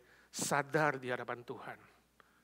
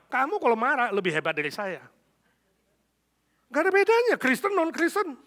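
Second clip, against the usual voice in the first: angry husband; 3 semitones higher, 8 dB louder than usual. Acted. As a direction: play a husband's mounting angry rant. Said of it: "Suaminya marah, mengatakan".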